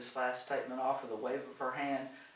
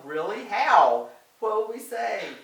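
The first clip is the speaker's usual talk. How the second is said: higher, louder excited questions; eager surprise; 8 semitones higher, 13 dB louder, slower than usual. A narrator's reading. Doris reacts to Helen's suggestion, excited. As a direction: burst out with hopeful questions.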